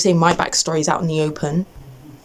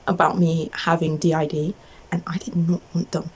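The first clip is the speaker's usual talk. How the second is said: whispering; 2 semitones lower, 5 dB quieter than usual. Real, not acted. Whispering private diagnosis.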